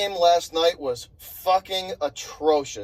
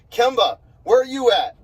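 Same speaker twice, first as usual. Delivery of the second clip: calling out; 4 semitones higher, 4 dB louder than usual. Real, not acted. Calling out Kemba on camera.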